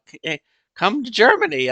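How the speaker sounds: hammed-up German guy inviting; imitating German friend. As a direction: call out his offer cheerfully. Imitates German man inviting her.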